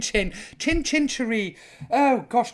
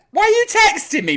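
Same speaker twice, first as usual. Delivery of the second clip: mock exasperation; 11 semitones higher, 7 dB louder than usual. Real, not acted. Viewer texting instead of commenting.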